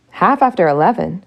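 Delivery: sudden high, loud alarm; startled. Acted. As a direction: jolt up in surprise. Prince startled by clock.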